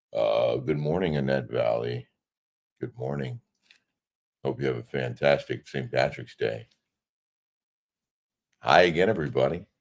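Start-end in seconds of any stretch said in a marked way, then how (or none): 0.5-6.6 sexy, sultry newscaster delivery. Asked by a viewer to greet her, in a sexy newscaster voice. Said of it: "say hello to me with your sexy news, newscaster voice".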